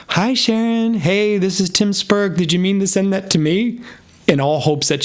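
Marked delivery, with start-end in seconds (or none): 0.1-3.8 hopeful reply. Retold or imitated. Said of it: "So I texted back".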